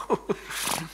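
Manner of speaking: short laugh; brief chuckle at own joke. Real, not acted.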